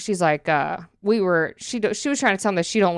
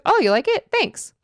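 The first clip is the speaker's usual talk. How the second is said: much higher, flattered store lady; imitating store lady; 10 semitones higher than usual. Store lady thanking a customer who likes her tattoo, high-pitched imitation. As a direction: mimic her pleased reaction in a high voice. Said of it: "I'm gonna try to do the voices".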